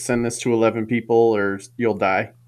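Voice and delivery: ordinary talk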